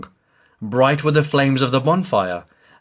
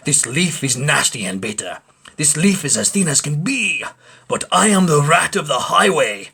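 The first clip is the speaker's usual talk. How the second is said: greedy rat; 3 semitones higher, 3 dB louder than usual. Acted.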